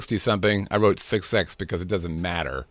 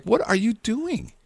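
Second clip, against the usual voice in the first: mock alarm; 14 semitones higher, slower than usual. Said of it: "I'm like".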